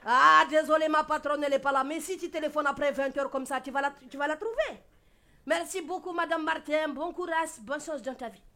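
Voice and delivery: put-on a light Koulibaly-style accent; West African accent. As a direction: answer the phone as a streetwise African woman. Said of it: "Marie Curie en mode Koulibaly".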